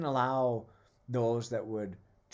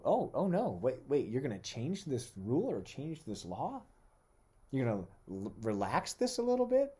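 a listener pretending to be shocked by the new rule; mock alarm; 3 semitones higher than usual. Preacher playing a worried listener, mock alarm. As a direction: pitch jumps up in playful panic.

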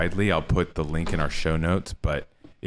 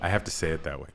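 late night radio DJ; faster than usual. Pretend. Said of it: "in my late night D J voice".

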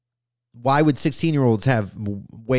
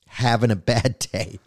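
ordinary talk, nothing marked

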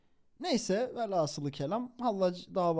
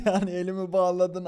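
amused retelling; 6 dB louder than usual. Retold or imitated. Amused retelling of cheeky prisoner.

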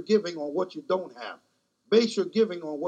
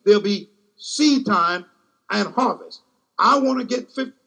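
preaching; 3 semitones higher than usual. Real, not acted. Preacher pressing his flock on seed and harvest, preaching with fervor. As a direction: preach it, letting the congregation feel each line. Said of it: "I'm gonna go to preaching now".

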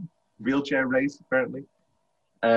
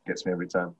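laughing helplessly; 6 semitones lower, 7 dB quieter, much faster than usual. Real, not acted. Telling a co-host about a film, laughing hard. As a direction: laugh it out, barely able to speak. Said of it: "laughing through words".

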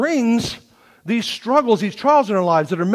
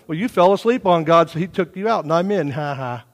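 mock gloating laugh; 4 semitones lower than usual. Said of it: "they're kinda laughing at him".

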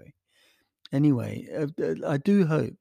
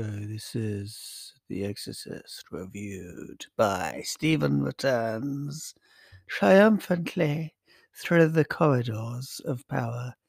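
slow, dramatic movie-trailer announcer; mock trailer voice; slower than usual. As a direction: announce the guest like an epic film trailer, slowly. Mock film-trailer intro.

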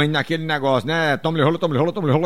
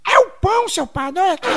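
falsete de menino, começando forte; Sininho; 12 semitones higher than usual. Acted. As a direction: responda com vozinha infantil bem aguda. Menino responde ao padre. (menininho em falsete mostrando ao padre)

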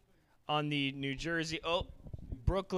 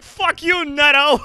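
much higher, shrieked heckle from courtside; heckling cop; 13 semitones higher, 17 dB louder than usual. Retold or imitated. Courtside cop heckling the player, shrieked mock heckle. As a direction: scream it like a rowdy fan cop. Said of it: "He's like".

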